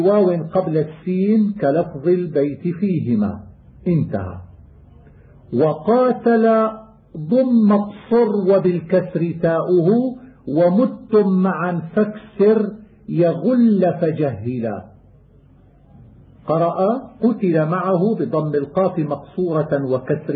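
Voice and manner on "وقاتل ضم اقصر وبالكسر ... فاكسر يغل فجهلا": poem recitation. Acted. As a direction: recite the rhymed line like a student of qira'at. Chanted verse of the poem.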